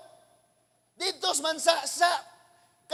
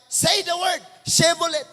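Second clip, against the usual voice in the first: loud, commanding test of a stranger; demanding challenge; 5 dB louder than usual. Retold or imitated. Guard loudly demanding he say the password. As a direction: bark the password demand at him.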